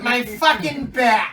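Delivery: long, high agonized howl, hammed up; mock pained yell. Dad watching backflips, hammed-up drawn-out wail. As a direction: draw out the comic cry of pain. Acts himself hurt at gymnastics.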